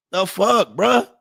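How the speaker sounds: high-pitched, exasperated disbelief; baffled protest rising high at the end; incredulous. Real, not acted. Exasperated reaction to endless requests.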